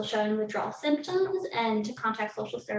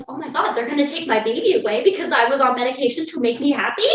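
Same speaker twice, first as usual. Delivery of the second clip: fast, loud, panicked rush; blurting out fear she'll lose him; retold panic; 2 semitones higher, 6 dB louder, faster than usual. Mother retelling her panic to the hospital, fast and loud.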